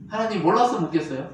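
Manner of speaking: normal talking voice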